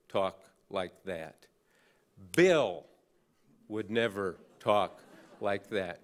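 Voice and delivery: emphatic imitation of rising indignation, punching the names; mock-heated lecture, hitting each name hard; retold anger. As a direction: act out an angry rebuke with measured pauses. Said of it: "lamp-throwing anger".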